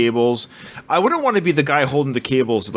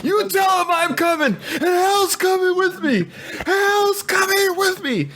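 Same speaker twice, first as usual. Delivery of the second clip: imitating Kurt Russell. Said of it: "when he goes Kurt Russell angry".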